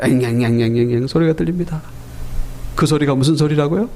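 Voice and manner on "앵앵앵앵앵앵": low droning buzz in the ears; imitated buzzing. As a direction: mimic a run of whining noise. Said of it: "귀에 무슨 소리가 들리는 거예요".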